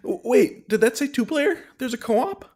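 high, eager pitch; eager discovery of co-op; excited. Real, not acted.

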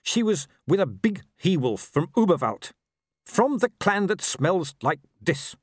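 high-pitched cowering wolf voice; whining wolf. A narrator's reading. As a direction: confess as a frightened, whining wolf. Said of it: "the wolf whined".

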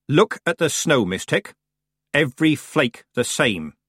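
lightly voiced old witch; a hint of a crotchety old crone. Miss Treason voiced in story.

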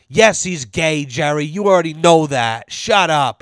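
retold irritated telling-off; imitated exasperated scolding. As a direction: set him straight as the fed-up lady. Lady scolding Jerry, corrected quote.

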